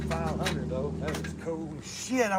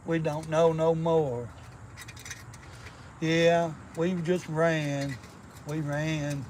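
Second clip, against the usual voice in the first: slow, simple Southern storyteller; movie character voice; 3 dB quieter, slower than usual. Retold or imitated. Parodying a film hero about his friend, slow. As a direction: tell it slow and earnest like a simple soul.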